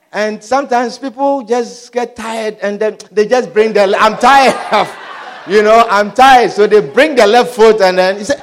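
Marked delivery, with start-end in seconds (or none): 4.0-6.5 fed-up shout. Retold or imitated. Spouse fed up.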